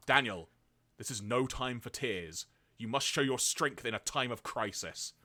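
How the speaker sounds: lightly voiced earnest father; a hint of solemn fatherly lecture; Spike. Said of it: "try and recreate the voice I did".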